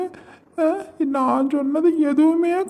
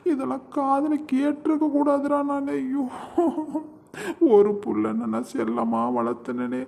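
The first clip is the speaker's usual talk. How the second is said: grieving lament; 3 dB quieter than usual. Acted. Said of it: "நீங்க இனிமே அழாதீங்கப்பா".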